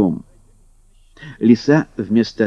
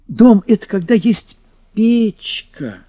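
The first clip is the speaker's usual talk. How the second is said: 小家伙高声; 9 semitones higher than usual. Acted. Домовёнок объясняет медведю.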